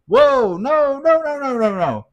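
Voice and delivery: high run of protesting noes; retold frantic denial. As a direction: rattle off denials high and urgent.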